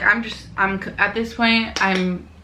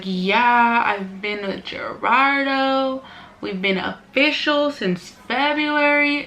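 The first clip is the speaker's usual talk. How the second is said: imitated girlfriend; 3 semitones higher, slower than usual.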